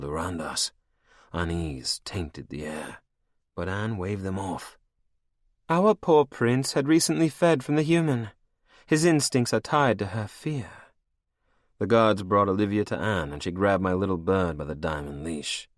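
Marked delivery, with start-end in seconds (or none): 5.7-10.7 high, cold and mocking; higher, menacing royal voice; villainess queen. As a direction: purr it over your captive like a cruel queen. Anne addresses ballroom.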